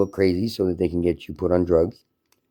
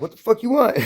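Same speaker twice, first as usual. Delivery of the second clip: retold challenge.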